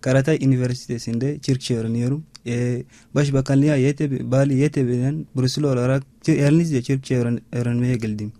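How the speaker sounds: non-native Turkish with an African accent; halting learner's Turkish, real accent; foreigner broken turkish. Real, not acted. Chadian student speaking learned Turkish.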